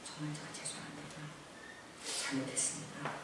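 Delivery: bow your head and apologize meekly; retold apology, very soft and humble. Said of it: "그래서 제가 그랬어요".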